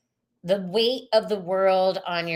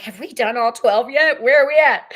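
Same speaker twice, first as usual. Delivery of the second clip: higher, louder impatient quip; impatient asking; 4 semitones higher, 8 dB louder than usual. Retold or imitated. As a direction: hurry the reading along, half-joking. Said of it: "I'm like".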